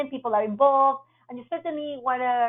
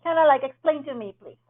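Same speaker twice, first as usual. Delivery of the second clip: gentle checking question; 5 semitones higher than usual. Shown as a demonstration. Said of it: "This is a way out, like".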